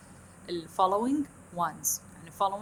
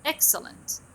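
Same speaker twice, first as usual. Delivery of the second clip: "Excellent" high on EX, dropping on the last two syllables; falling tune; 7 semitones higher, much slower than usual. Shown as a demonstration. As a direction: hit the first syllable of "Excellent" high, then let it fall. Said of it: "pronounced at a very high pitch".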